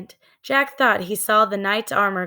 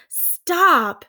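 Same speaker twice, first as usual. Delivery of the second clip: high, loud yell; shout; 9 semitones higher, 4 dB louder than usual. Acted. Jack shouting at the treehouse to stop, loud. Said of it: "Jack shouted".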